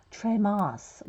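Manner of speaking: Tremos said the French way, treh-MOH; a playful French-accented Tremos. Shown as a demonstration. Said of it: "We have to put a French accent to that".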